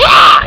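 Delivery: short mock battle cry; imitated attack yell. Retelling a drop kick on bully, mock attack cry. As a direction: let out a quick fighting yell.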